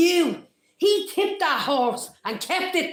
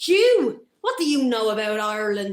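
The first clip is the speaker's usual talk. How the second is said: hostile sneer; 2 semitones lower than usual. Acted. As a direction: spit the challenge at him. Citizen confronts Bloom hostilely.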